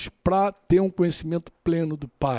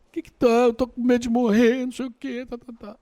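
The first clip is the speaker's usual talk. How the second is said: mock panic; 4 semitones higher than usual. Scared brother calling doctor.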